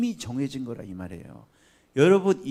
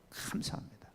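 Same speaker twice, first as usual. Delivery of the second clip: whispered thanks; 5 semitones lower, 13 dB quieter than usual. Real, not acted. Whispered thanks after preaching.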